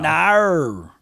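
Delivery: a short imitating Australian Nar. Mocking how Australians say no, Australian accent. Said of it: "That's how they say no".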